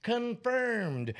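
confirmed rising high each time; hyped announcing. Acted. Announcing the lineup, each name met with a hyped high confirmed. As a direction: announce each act like a big reveal.

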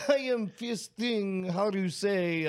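slow mock Russian accent; halting Russian accent. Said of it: "in the Russian accent".

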